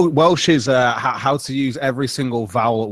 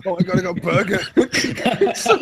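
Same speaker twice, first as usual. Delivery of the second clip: high, excited little dog voice, laughing; a dog thrilled by its burger, squeaking it out; happy dog voice; 6 semitones higher than usual. Retold or imitated. Voicing the dog happily.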